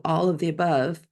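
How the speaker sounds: ordinary talk, nothing marked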